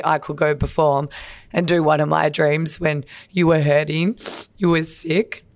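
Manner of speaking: real emotion rising under the words; holding back tears while speaking of dad; getting emotional. Real, not acted. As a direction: voice catching on real feeling. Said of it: "I don't know why I'm getting emotional".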